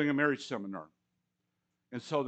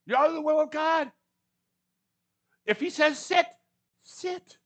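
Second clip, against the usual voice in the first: rising preaching fervor; 11 semitones higher, 4 dB louder than usual. Real, not acted. Preacher climaxing on sit.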